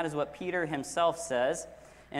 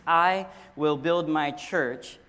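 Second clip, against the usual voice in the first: "I" drawn out loud, then the rest slow; stress on I; 4 dB louder, slower than usual. Shown as a demonstration. Preacher showing which word matters, stress on "I". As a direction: hit "I" hard and hold it before going on. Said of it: "We will emphasize a different word".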